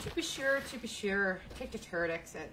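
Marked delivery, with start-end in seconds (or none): 0.0-1.4 put-on quick stab at an Irish accent; mock Irish catchphrase; attempted Irish accent. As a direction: try an Irish lilt, half-hearted. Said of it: "that's Irish".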